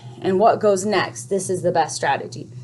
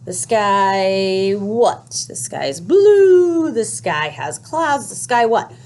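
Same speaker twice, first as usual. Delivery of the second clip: puzzled listener; 3 dB louder, much slower than usual. Retold or imitated. Teacher mimics a confused listener hearing an incomplete sentence, slow and puzzled. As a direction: stretch it out like someone baffled by a half sentence. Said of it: "they would be like".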